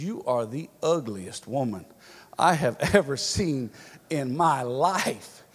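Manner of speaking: lightly voiced parrot, spacing the words out for the punchline; rude parrot. Parrot insults the lady in the pet store, slow and deliberate.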